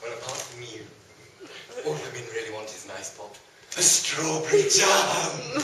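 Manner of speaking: put-on low, rasping old crone voice; low daft old crone. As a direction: cackle out the answer as a hag.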